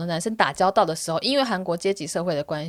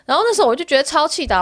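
still angry; 7 semitones higher, 6 dB louder, faster than usual. Real, not acted.

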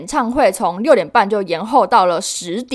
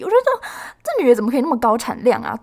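amazed admiration; 3 semitones higher, faster than usual. Real, not acted. Fan marvels at idol's productivity.

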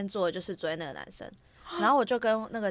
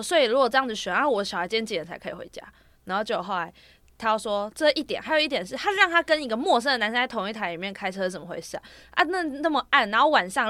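retold scolding, a bit louder; mother confronting the school about safety, heated; mildly angry mom; 2 semitones higher, 5 dB louder than usual. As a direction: press the director with indignant questions. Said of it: "他很火大".

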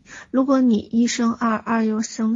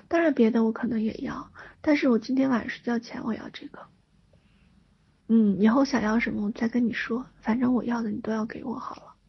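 cutesy whiny pleading. Pretend. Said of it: "你只需要撒娇".

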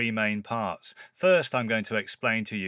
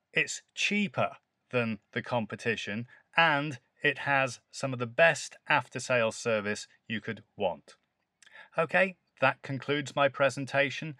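presenter conclusion; 2 semitones higher than usual. Shown as a demonstration. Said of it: "time to hit them with that memorable conclusion".

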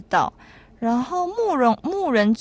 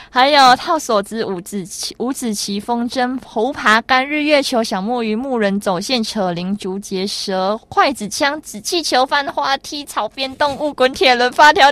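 rushed listing; 3 semitones higher, 4 dB louder than usual. Real, not acted. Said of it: "有点念太快".

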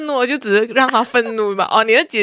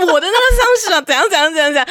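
gossiping woman; 6 semitones higher, faster than usual. Retold or imitated. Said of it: "那种女人哦，围在一起讲是非的时候啊".

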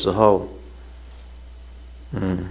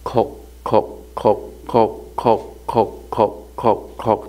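模仿鞋跟声. Retold or imitated. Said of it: "高跟鞋的声音".

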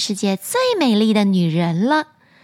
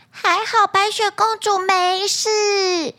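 dwarf voice; 7 semitones higher, slower than usual. Acted. Dwarfs relieved.

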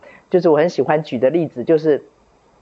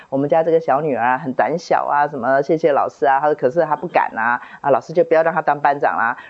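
put-on light Shandong accent. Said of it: "就用山东腔跟他讲说".

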